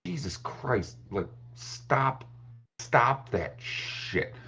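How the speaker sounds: exasperated. Retold or imitated. Father urging his daughter to vent, exasperated. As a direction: tell her to drop the act. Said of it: "And I'm like".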